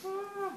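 drawn-out high "ah" imitating a painted scream; imitated Scream gasp. Teacher shows class the Scream painting, mock scream. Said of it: "you know the Scream, where they're going like".

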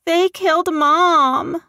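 put-on high, slow, loud frightened child's plea; little girl crying. A narrator's reading. Frightened girl in David's arms, high tearful plea. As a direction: beg for your life like a terrified small girl. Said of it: "the girl cried in his arms".

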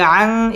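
"আং" hummed through the nose; ikhfa ghunnah. Shown as a demonstration. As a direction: hold the nasal of "আং". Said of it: "ইকফা গুন্নাহ করে পড়তে হবে".

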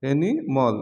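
অ্যানিমাল said as "enimol", no full second a; অ্যানিমাল with a short reduced last syllable; right pronunciation. Shown as a demonstration. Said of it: "দুইটি শব্দ অ্যানিমাল". (অ্যানিমাল উচ্চারণ: শেষে অল, ম্যাল নয়)

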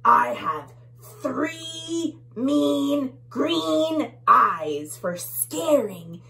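slow, loud mock menace; bully bug. Bully bug boasting to tiny bugs, mildly menacing. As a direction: stretch out the threat. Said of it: "He says".

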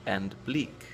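slow, measured poem reading with careful word-by-word pauses; poem recitation. Acted. Reading the poem Chaos to show tricky English pronunciation, measured recitation. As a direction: recite each rhyming word slowly and distinctly.

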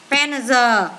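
"pen giờ" with a buzzing z syllable at the end; voiced z ending. Shown as a demonstration. Teacher showing pupils the third case, z ending sounded out. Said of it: "Trường hợp thứ ba này".

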